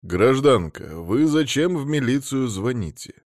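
mildly cross duty officer; a touch of irritation at the caller; understated annoyed police officer. Acted. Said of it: "Сердится он".

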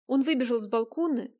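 usual speaking voice

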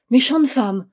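loud, sudden exclamation; violent outcry. A narrator's reading. Gentle girl finally cries out at the woman, violently. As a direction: burst out forcefully in reproach. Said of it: "s'écria avec violence".

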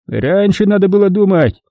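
put-on high, shrill old woman whoop. A narrator's reading. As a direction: holler it like a spiteful old woman. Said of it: "гикнула старушка".

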